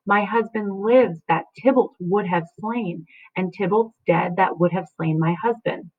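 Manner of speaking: Juliet talking to her own tears; dramatic reading. Acted. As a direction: read it as grief turned to reason.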